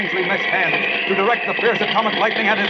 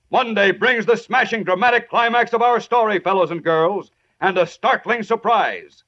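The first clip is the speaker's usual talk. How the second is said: booming dramatic announcer; old radio announcer. Acted. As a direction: build suspense for next episode. Closing cliffhanger announcement.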